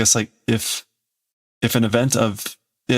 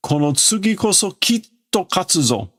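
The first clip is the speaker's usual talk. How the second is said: voiced threat; 8 semitones higher than usual. Reading Pluto's threat.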